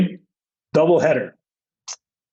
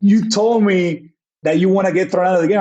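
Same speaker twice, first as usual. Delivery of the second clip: imitating umpire; 5 semitones higher than usual. Umpire voiced in story.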